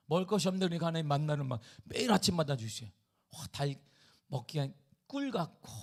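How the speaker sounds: ordinary delivery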